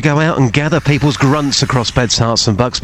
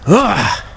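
effort grunt; 5 semitones higher than usual. Acted. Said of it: "here's mine again".

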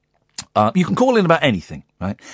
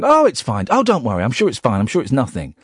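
playing it down; 3 semitones lower than usual. Host imitating his wife at the door, playing it down. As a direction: brush it off, each phrase dropping lower. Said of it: "she was playing it down".

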